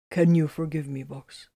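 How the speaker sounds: lightly solemn question; a hint of gravity, asking forgiveness; understated solemn plea; solemnly. A narrator's reading. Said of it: "he asked solemnly".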